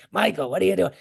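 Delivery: lightly voiced raspy old Italian guy; a hint of an old Italian man's rasp; Jerry. Old friend answering an excited phone call, lightly raspy. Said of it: "My old Italian guy, raspy voice".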